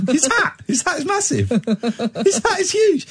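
high-pitched, laughing through the words. Real, not acted. Host cracking up over a massive hat, laughing. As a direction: crack up while exclaiming.

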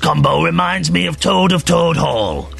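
put-on slow, drawn-out northern English accent; mock-quote it in a put-on northern accent, unhurried; Sophie Tyler, northern accent. Radio host reads out a colleague's tweet to her, mock northern accent. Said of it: "I gave Sophie a northern accent".

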